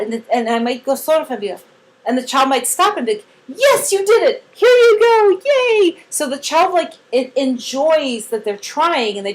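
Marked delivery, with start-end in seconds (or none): 3.5-6.0 high, loud celebration; cheering. Acted. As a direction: make a big fuss of the child's success. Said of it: "we cheer on the way".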